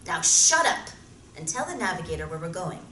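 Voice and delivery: loud, stern dressing-down; angry scolding. Acted. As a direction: put him in his place. Captain scolds Mart.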